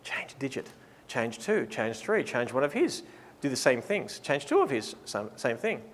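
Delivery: soft, low murmur of instructions; hushed, low coaching voice; mock whispered prompting. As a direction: prompt quietly, as if into someone's ear. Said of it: "I'll be whispering this in your ear".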